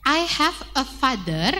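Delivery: teacher reading lyrics; slow lyric read. Shown as a demonstration. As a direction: stretch I have a father out for the kids. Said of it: "verse yang kedua".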